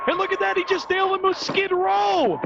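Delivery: wrestling commentator hyped on the action; excited play-by-play. Acted. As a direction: call the spray like a live finish. Finishing move play-by-play call.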